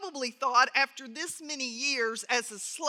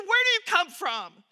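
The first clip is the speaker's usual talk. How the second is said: harsh question; 4 semitones higher, 3 dB louder than usual. Acted. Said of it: "spoke to them harshly".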